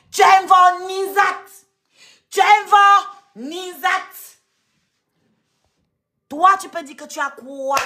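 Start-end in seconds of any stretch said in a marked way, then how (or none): 0.1-3.9 taunting. Acted. Repeated taunt, raised.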